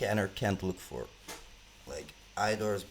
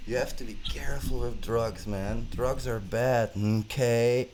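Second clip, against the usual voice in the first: loud, slow preachy warning; mock serious warning; 2 semitones higher, 7 dB louder than usual. Real, not acted. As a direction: lecture them loudly, half joking. Drunk lecture on drugs.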